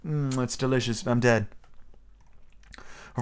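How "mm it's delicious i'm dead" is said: mock-feeble, hushed fairy; hammed-up dying fairy. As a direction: fade away in a joking parody. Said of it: "she was just like".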